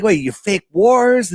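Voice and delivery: high, slow, stunned disbelief; mock shocked. Applicant hears about faked wars, asks in slow high disbelief. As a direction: play the stunned job applicant.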